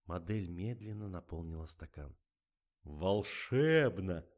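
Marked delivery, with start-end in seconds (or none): 2.8-4.3 moaning with delight. A narrator's reading. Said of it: "простонал Фомин".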